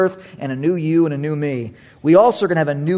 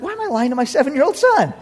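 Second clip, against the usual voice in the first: indignant dad; 13 semitones higher, 5 dB louder than usual. Retold or imitated. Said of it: "I'm like".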